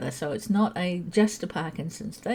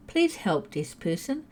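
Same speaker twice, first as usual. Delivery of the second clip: poem opening; 2 semitones lower, slower than usual. Shown as a demonstration. Reading her poem to the help desk worker, recited. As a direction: open the poem with a lift on Please, then settle. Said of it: "Here we go".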